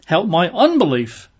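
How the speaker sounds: a father's broken plea; crying out with tears. A narrator's reading. Father crying out to Jesus, tearful and pleading. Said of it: "cried out and said with tears".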